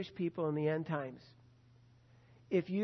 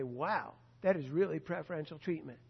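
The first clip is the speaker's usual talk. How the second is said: mock awe; 4 semitones lower, 6 dB quieter than usual. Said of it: "You say".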